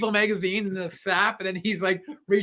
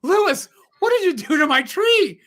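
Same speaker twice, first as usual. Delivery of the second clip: laughing quote; 11 semitones higher, 6 dB louder than usual. Retold or imitated. Quoting Clark's wife laughing.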